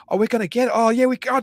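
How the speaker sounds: hammed-up prank glee; mock excitement. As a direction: egg him on playfully. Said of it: "we said".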